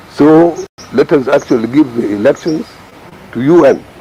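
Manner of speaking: ordinary talk, nothing marked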